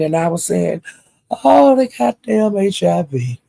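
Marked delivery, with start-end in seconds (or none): 1.3-3.4 slow, drawn-out scoff at the H I V; slow mock scoffing; mock dismissive. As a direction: scoff and drag it out. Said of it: "I was talking like that".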